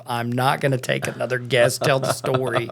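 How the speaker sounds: whiny voice. Retold or imitated. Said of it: "you put your whiny voice on".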